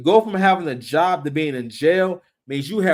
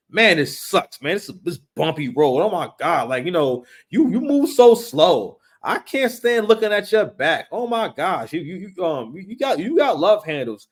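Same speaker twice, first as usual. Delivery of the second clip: mock complaining. The woman in the wagon whines at the man pulling her. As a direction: whine like a spoiled passenger.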